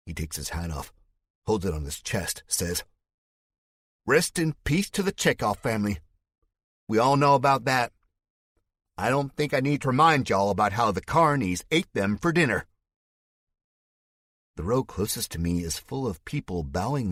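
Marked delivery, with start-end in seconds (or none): 4.1-12.7 Spike's fake Southern accent. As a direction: play at mourning to sway the crowd. Mock eulogy to the crowd.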